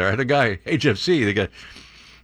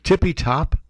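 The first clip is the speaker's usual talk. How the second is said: incredulous; 4 semitones higher, slower than usual. Real, not acted. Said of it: "Who talks like that?".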